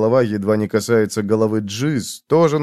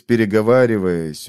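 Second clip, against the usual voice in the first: ordinary delivery, nothing marked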